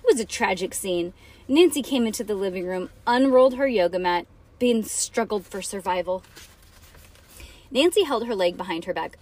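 put-on dramatic read-aloud for children; story narration. A narrator's reading.

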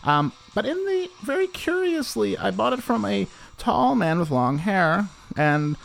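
storyteller in a hammy Danish voice; Danish accent. Acted. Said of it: "great impression of a singer".

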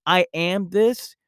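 "I am this" slow, rising on this; slow, firm claim; stress on this. Shown as a demonstration.

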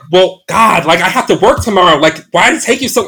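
mildly aggressive retold complaint. Imitating a hookup annoyed at a late arrival, mildly aggressive. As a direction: imitate an impatient, irritated host with a light touch. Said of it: "very aggressive".

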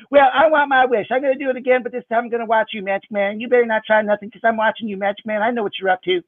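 put-on a kid warning she's watching; suspicious child. Sarah threatens to watch him.

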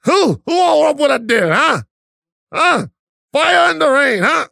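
put-on picture a singer shouting like a rude boy; the singer doing Jamaican. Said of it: "Adele was over there like".

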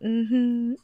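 high, slow sassy voice; put-on sassy voice. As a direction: strut it out with attitude. Acting out a character.

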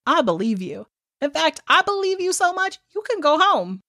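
lilting mock-generous pronouncement; baller interrogator. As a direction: play a cool investigator letting someone off. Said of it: "baller ass Joe goes".

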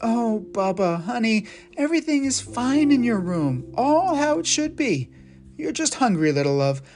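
put-on calm a frightened child; reassuring mom. Mother comforting her confused son, gentle.

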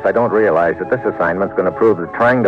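dry, wry first-person narration; hard-boiled narration. A narrator's reading. Agent narrating his case to the listener, dry and wry. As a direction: tell it like a tough agent recounting trouble.

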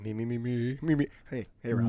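slightly raspy, tickle in the throat. Real, not acted. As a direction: voice a little scratchy and rough. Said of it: "a little, uh, raspy voice there".

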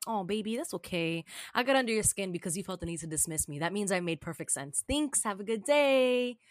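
condescending calm, ending on a singsong sign-off; mock-soothing brush-off. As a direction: placate them with fake sweetness. Retold calm dismissal of angry commenter.

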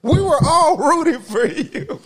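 high loud tearful scolding; Tyra Banks. Retold or imitated. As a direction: plead like a disappointed TV host. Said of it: "Where they're like".

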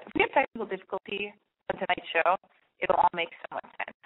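parched, dry mouth voice; dry cottony voice. Real, not acted. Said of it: "Do I sound parched?".

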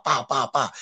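ordinary delivery

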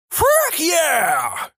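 very high imitated shout; mock yell. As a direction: toss it out high as a running joke. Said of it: "someone always adds a".

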